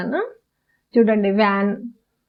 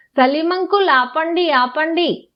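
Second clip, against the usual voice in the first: mild acted shout; 4 semitones higher than usual. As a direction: voice the boy calling to stop the van. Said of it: "గట్టిగా అరుస్తున్నాడు". (అరుపును అనుకరిస్తూ, కొంచెం పై గొంతుతో)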